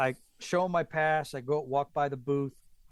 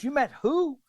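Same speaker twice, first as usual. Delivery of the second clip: high-pitched, baffled question; imitating a puzzled policeman; incredulous cop; 12 semitones higher, 4 dB louder than usual.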